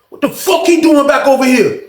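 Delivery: retold indignant challenge. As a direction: act out an old inmate's disbelieving complaint. Old head angrily challenges, retold.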